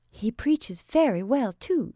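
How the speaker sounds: kindly. Acted. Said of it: "said Sarah kindly".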